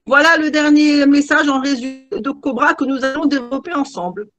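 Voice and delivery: mock pilot over the intercom; airline captain announcement. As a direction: cabin announcement from the cockpit. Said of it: "je vais me passer le nez".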